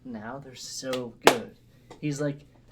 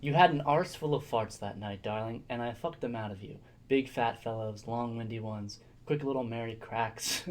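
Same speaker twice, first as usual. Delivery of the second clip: reading aloud. Acted. Reads a letter aloud.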